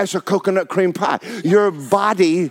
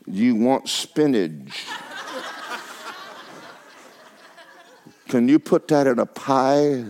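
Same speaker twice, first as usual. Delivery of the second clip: laughing quote; 6 semitones lower, 5 dB quieter than usual. Retold or imitated. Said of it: "I said".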